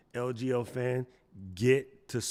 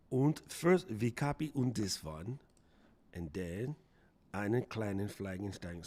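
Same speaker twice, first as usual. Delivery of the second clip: mock German accent. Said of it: "Don't make fun of my accent".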